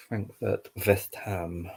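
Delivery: light mock German accent on the team names. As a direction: say Frankfurt the German way, half joking. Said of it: "doing that in a German accent".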